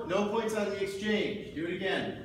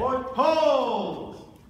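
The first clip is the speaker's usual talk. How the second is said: loud, sharp call to stop; shouted command; 7 semitones higher, 9 dB louder than usual. Real, not acted. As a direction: bark the halt across the floor. Referee halting fencers.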